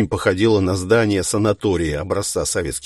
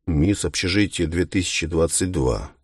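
skeptical; 3 dB quieter than usual. Acted. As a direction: repeat the title unimpressed. Повторяет титул с сомнением. (скептически и сухо)

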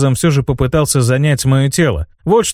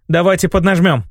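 shout; 5 semitones higher than usual. A narrator's reading. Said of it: "крикнула Шейла".

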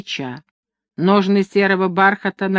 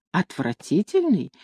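indignant echo; 6 dB quieter than usual. A narrator's reading. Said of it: "чуть не задохнулась от негодования".

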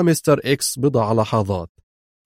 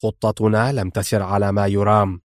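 lower, grave and strict; stern; 3 semitones lower than usual. Acted. Mr X telling Laura the plan failed, lower and stern. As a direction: lay down the bad news firmly. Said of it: "وهو يقول في صرامة".

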